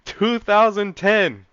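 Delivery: loud, high, drawn-out shout of disbelief; astonished outburst. Real, not acted. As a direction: blurt it out slowly at full volume, stunned. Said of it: "I was tripping real hard".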